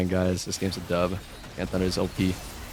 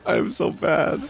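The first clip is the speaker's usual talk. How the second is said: high, slow, laughing self-mockery; laughing at himself; 13 semitones higher, slower than usual. Real, not acted. Streamer mocking his own misclicks, high laughing delivery. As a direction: giggle through the confession.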